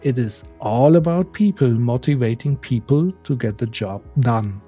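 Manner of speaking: English with a German accent, read out deliberately; German accent on careful English. Real, not acted. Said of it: "deswegen entschuldigt meinen Akzent".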